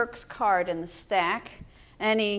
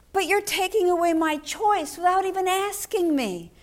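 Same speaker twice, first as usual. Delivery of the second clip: hurt and angry; 5 semitones higher than usual. Retold or imitated. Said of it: "it was hurt and it was anger".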